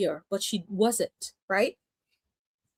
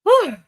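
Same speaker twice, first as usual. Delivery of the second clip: breathless whew; 10 semitones higher, 9 dB louder than usual. Real, not acted. Winded after running the stairs.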